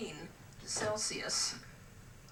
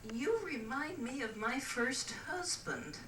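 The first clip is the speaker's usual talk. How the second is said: higher, slow coy line; coy approach; 6 semitones higher, slower than usual. Acted. Lady sizing up a gentleman on deck, coy. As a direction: draw it out at a higher pitch, coyly.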